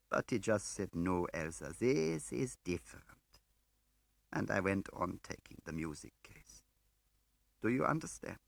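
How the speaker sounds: high, strained confessing woman; anguished woman. A narrator's reading. The woman confessing to Smiley, high and anguished. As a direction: pour out the guilt.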